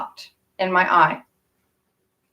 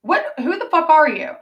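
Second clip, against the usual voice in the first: retold demand; 8 semitones higher than usual. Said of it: "And I was like".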